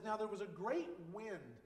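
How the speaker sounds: slow, emphatic, drawn-out proclamation; dramatic scripture reading. Acted. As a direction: stretch the words out to show the wind's might. Dramatic reading of scripture's great wind.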